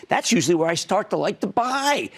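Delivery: "start" lifted and leaned on; stress on start. Shown as a demonstration. Telling viewers when to buy, stress on "start". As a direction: hit the word "start". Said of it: "Emphasis on the word start".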